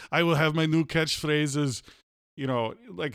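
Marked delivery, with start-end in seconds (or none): 0.1-1.8 put-on slow Austrian-accented action star; Arnold impression. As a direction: imitate an Austrian star, slowly. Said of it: "Arnold movie has the funny catchphrases".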